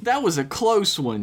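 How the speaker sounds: horny. Acted. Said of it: "with an audible horniness in her voice".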